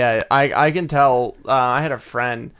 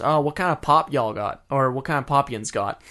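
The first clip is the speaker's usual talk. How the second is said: put-on Pittsburgh accent. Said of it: "my one friend goes".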